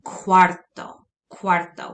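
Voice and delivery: "Cuarto" opened with a clear kwa sound. Shown as a demonstration. Teacher models "Cuarto" for students, clear kwa at the start. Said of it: "it's gonna make a K W A noise".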